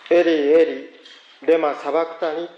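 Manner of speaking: slow, loud anguished cry of Eli Eli. Acted. Preacher voicing Jesus crying from the cross, slow anguished cry. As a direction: cry it out slowly like the crucified Jesus. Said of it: "大声で叫ばれました".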